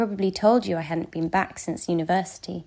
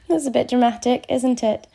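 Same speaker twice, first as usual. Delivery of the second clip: laughing; 5 semitones higher, 5 dB louder than usual. Acted. Self-mocking laugh at own drama.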